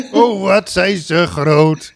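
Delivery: announcer call. Retold or imitated. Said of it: "riep de spreekstalmeester".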